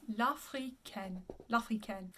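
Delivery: L'Africaine slow and soft, ending -KEN; open air vowel. Shown as a demonstration. Coach repeating the title slowly for students. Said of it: "Open air".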